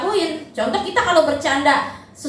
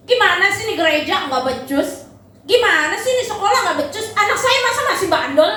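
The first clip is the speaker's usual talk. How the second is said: a hint of a whiny, complaining parent; mock-gripe like a fed-up parent; 5 semitones higher than usual. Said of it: "kalau ada orang tua nyalahin".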